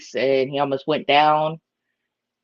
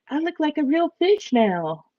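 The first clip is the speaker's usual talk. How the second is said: proud fish voice; 11 semitones higher than usual. Pretend. He's like.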